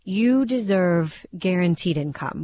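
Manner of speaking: ooze honeyed Southern charm like a radio ad; a hint of a silky Southern annuity salesman; smooth Southern radio pitchman. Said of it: "a voice like honey, super smooth".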